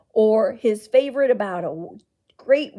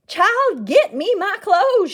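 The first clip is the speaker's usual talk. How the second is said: loud, high commanding order; 9 semitones higher, 8 dB louder, slower than usual. Acted. Aunt ordering the boy to fetch her clothes, loud command. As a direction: bark it like a command. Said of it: "she ordered".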